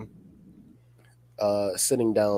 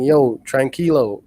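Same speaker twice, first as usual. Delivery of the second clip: raised voice, drawn-out call to settle down; imitating a shout from the bench; retold touchline shout; 6 dB louder, slower than usual. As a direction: call it out as if across the pitch, toned down for the mic. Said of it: "I'm shouting that".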